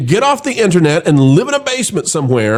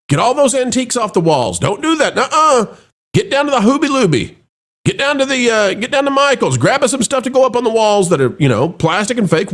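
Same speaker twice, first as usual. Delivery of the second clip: mock orders; 6 semitones higher than usual. Mocking company's redecorating orders.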